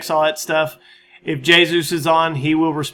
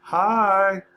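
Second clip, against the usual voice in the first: creepy guy; 3 semitones higher than usual. Pretend. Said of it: "I'll be that creepy guy".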